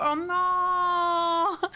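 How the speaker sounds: high, hammed-up wail of pity; mock dismay. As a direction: play it as an exaggerated little cry of sorrow. Mock dismay at viewer's message. (fausse plainte aiguë et exagérée)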